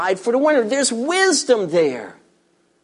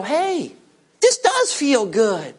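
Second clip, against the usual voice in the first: discover the joy with a chuckle; a giver surprised how good it feels; pleased surprise; 3 semitones higher, slower than usual. Retold or imitated. Voicing surprised joy of serving.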